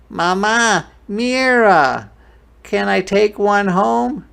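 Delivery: high, loud pleading; excited little boy. Acted. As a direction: beg mom eagerly, calling out. Boy begs mother for frog.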